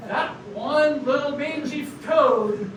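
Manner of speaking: slow, deliberate broadcast address; radio voice. Acted. Frog denouncing the toad on air, slow proclamation. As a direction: proclaim it over the airwaves. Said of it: "You're the one with the radio voice".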